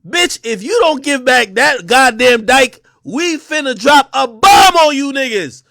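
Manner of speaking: slow, loud threatening bark; drawn-out shouted warning to Russia; slow mock threat. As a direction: lay down the threat slowly and loudly.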